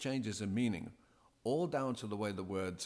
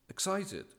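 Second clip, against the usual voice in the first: high, bright burst on Excited; 11 semitones higher than usual. Shown as a demonstration. Presenter demonstrating feelings to DJs, excited. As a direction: show the excitement in the word itself. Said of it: "how are they feeling at the time".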